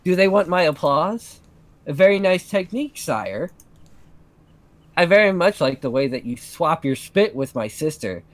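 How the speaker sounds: mock-polite sarcastic praise. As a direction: drip with sarcasm. Catherine mocking the couple.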